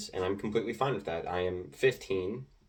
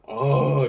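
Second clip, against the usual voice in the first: loud, higher imitated "ohhh" of a ranting player; hammed-up jeering noise; mock trash-talk noise; 5 semitones higher, 8 dB louder than usual. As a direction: mimic wordless ranting with one long loud groan. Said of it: "trash talking and making the kid cry".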